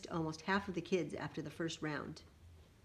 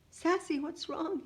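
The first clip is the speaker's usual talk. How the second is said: high, slow concerned question; acted tender concern; 10 semitones higher, slower than usual. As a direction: gently ask an upset child, pitched up. Uncle asks crying niece what's wrong.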